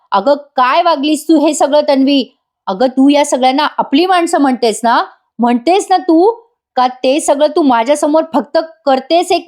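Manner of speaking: retold mild mock yell, pitch climbing; angry shout. Ashwin yells at Tanvi over the thrown food, mild mock anger. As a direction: tell her off, building up the anger. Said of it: "जोरात ओरडतो".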